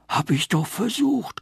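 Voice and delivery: high plaintive tree; lamenting. A narrator's reading. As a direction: complain like a weary tree. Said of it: "klagte der Götterbaum".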